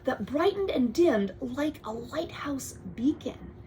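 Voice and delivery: storybook read-aloud, drifting to a hush; bedtime-story reading; reading to a child. Acted. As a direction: read the book to your kid. Parent reads picture book aloud.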